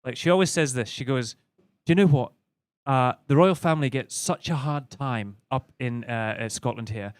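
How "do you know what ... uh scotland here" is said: lightly voiced posh English wife; a hint of a posh complaint; proud English wife. Wife sticking up for the royals to husband, lightly imitated posh voice. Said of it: "'cause this is bang on".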